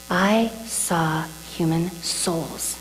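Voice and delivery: slow, soft awe sliding into a whisper; awed hush. Retold or imitated. Speaker recalling beautiful souls, slow hushed awe. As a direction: breathe it out slowly in wonder.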